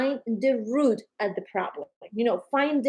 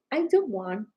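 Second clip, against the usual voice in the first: defiant refusal; 7 semitones higher than usual. Retold or imitated. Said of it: "you have the right to say".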